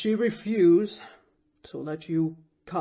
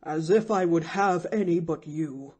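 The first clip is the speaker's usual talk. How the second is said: indignant; 6 dB louder than usual. A narrator's reading. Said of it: "resented an indignant voice".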